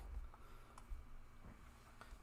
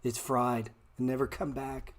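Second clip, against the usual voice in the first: mock despair; 2 semitones higher than usual. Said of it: "You sound ridiculous".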